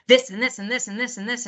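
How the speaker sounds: mild mock panicked rambling; panicked hyperspeech. Family member spilling details to a responder, mock panicked hyperspeech. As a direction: imitate a panicked relative rattling off a list. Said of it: "and hyperspeech and in, in panicked demeanor".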